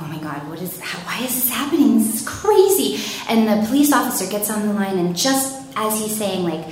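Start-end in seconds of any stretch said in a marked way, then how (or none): 0.0-3.0 scared. Retold or imitated. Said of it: "and I'm scared".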